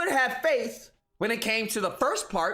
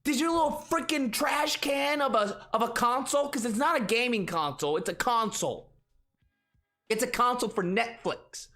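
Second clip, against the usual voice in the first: dim fanboy voice. Acted. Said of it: "this whole Tard voice thing he's doing".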